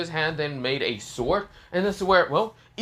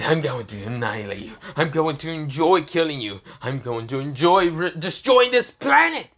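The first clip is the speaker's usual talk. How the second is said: menacing villain gloat. Acted.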